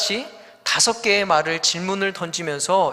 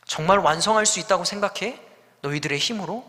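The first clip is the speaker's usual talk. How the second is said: mocking doubt. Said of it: "조롱하는 것입니다".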